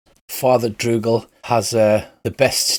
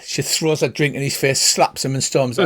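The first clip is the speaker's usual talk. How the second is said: usual speaking voice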